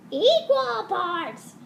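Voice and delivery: "Equal parts" slow, high and loud; stressed slow Equal parts. Shown as a demonstration. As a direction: drag out "Equal parts" emphatically.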